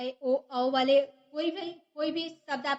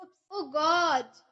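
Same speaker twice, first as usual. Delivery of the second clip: oops. Shown as a demonstration. Teacher acting out a panicked oops over a slip. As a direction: caught in a silly mistake. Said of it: "गलती हो जाती है तो हम बोलते हैं ना".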